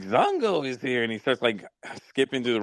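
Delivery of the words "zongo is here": lightly voiced crazed waiter, slow and a bit higher; a hint of a man announcing himself as Zongo; crazy waiter voice. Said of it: "He's like".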